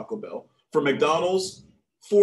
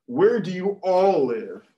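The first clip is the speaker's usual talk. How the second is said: lightly acted cop, slow and louder; policeman; 3 semitones higher, 5 dB louder, slower than usual. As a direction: question the teen slowly and firmly.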